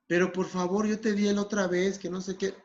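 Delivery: mildly wheedling plea; insistent pleading. Acted. Smoker reminding friend of past favour, mildly insistent. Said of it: "esta persona que está siendo insistente".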